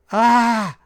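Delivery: high, loud agonized scream from behind a door; scream of pain. A narrator's reading. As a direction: cry out as the beast strikes. (grito de dor atrás da porta)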